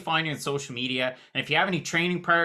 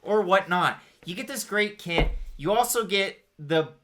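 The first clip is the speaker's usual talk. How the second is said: upbeat sponsor read, salesy pitch. Acted. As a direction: sell it like a podcast ad. Host reads a sponsor ad.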